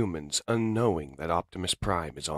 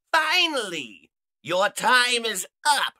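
gloating villain robot; 7 dB louder, slower than usual. Acted. Villain lands before Optimus.

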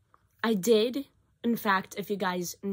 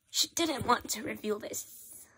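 hushed whisper, a bit faster on the second line; whispered aside; 2 semitones higher than usual. Real, not acted. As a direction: drop to a whisper as if sharing a secret. Telling what Nicole kept secret.

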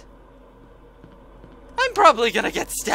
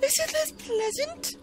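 sarcastic; 7 dB quieter, slower than usual. Pretend. Sarcastic high voice.

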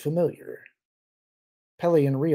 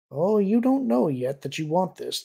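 lilting, higher-pitched assurance; assuring; 5 semitones higher, 3 dB louder than usual. A narrator's reading. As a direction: assure him knowingly. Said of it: "the voice assured him".

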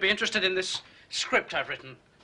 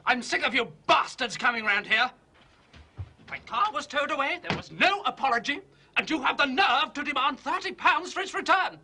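raised, higher, indignant tirade at the police; angry rant; 6 semitones higher than usual. Acted. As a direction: pile on the outrage, voice climbing higher. Shouting at the police at the door.

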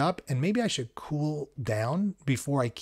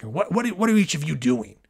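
high, loud, agitated questioning; worked-up high-voiced demand; 4 semitones higher, 6 dB louder than usual. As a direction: pitch it up and come in loud. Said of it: "in this high voice".

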